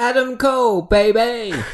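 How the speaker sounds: very high, very loud, booming shout. Opening a podcast with a surprise catchphrase: shouting a catchphrase. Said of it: "while you were shouting Adam".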